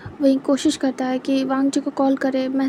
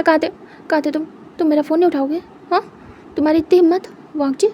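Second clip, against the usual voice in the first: louder, accusing partner who didn't pick up; angry scolding; 3 semitones higher, 4 dB louder, faster than usual. Acted. Boyfriend scolding Wang ji for ignored calls, angry and loud. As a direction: scold him for ignoring every call.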